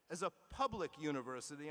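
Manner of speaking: public said with extra weight; stress on public. Shown as a demonstration. University leader stressing the public mission, emphasis on public. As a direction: lean on the word public. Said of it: "I emphasize the word public".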